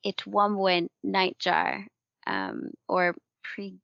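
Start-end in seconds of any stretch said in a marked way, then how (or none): 0.1-1.8 Itwambwe said slowly and carefully, syllable by syllable; a slow second attempt at Itwambwe nightjar; careful retry. Shown as a demonstration. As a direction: sound out Itwambwe slowly, trying to get it right. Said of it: "I apologize for butchering some of them".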